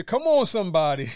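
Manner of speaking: loud preacher call, laughing; rising preacher cadence. Pretend. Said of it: "Make, make me sound like a preacher".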